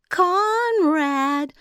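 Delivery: high, loud sugary call; sweet calling giantess. A narrator's reading. Giantess calling her brother Conrad, sweet high call. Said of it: "began to call in that strange, sweet voice".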